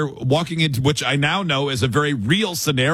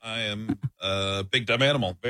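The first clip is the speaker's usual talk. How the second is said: softer, lower playing dumb; mock dumb excuse; 4 semitones lower, 7 dB quieter than usual. Caught talking to himself, softer, lower playing dumb. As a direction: mumble it like a big dumb animal.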